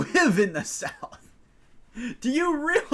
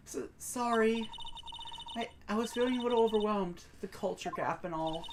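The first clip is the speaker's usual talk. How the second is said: softer, hesitant apology; sheepish apology; 7 dB quieter than usual. Acted. Shy girl excusing herself for hiding, sheepish and soft. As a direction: apologize quietly with a small stammer.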